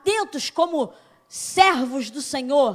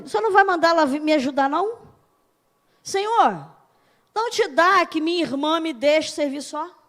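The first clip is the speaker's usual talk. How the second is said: a fast, louder complaint with an edge; hurried, louder, nagging her Lord; Martha complaining; 6 dB louder than usual. Retold or imitated. Preacher voicing Martha nagging Jesus about her sister. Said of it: "Olha o que ela faz assim".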